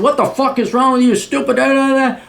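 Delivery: hammed-up fury at a stranger; short-fuse outburst. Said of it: "You with your short fuse".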